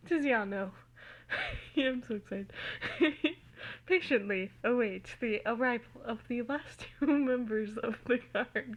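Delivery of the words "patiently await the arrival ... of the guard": a laugh breaking the read mid-line; laughing through it. Real, not acted. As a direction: try to keep reading while giggling. First take broken by laughter.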